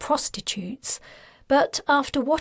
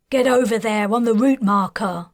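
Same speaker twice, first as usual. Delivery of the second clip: louder military command; barked order; 5 dB louder than usual. Acted. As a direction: order her into place. Officer giving an order.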